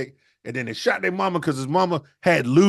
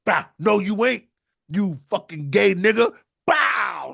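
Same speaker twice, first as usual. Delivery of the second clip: louder, higher action-hero yell; cop show burst-in; 7 semitones higher, 3 dB louder, slower than usual. Acted. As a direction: kick the door in like a cop show. Brother bursts in shooting.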